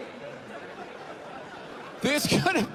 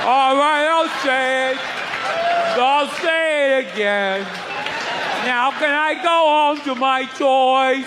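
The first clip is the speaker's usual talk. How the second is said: mock sulky kid; 5 dB louder, slower than usual. Brainwashed kid voiced.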